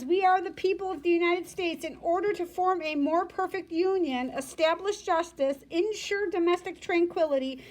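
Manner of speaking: reading a formal text aloud. Shown as a demonstration. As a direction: read it out like a document. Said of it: "the preamble says".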